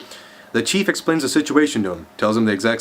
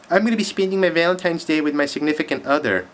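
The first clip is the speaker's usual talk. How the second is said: bitter; 4 semitones higher than usual. Real, not acted. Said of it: "I just sound bitter there".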